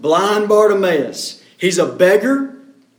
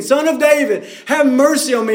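calling out louder; 5 semitones higher than usual. Retold or imitated. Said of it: "He's gotta get over the noise".

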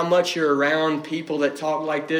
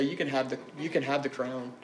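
soft tempting voice; 5 dB quieter than usual. Retold or imitated. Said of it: "He'd say".

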